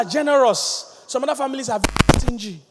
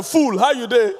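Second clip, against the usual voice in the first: insult greeting; slower than usual. Retold or imitated.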